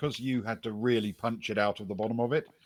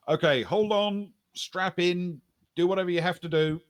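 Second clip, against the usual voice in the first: raised, higher-pitched warning; mild yell; 8 semitones higher, 4 dB louder than usual. Acted. Pilot warns everybody before landing, mild high-pitched yell. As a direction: call out orders to the whole cabin. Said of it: "she's yelling out to everybody".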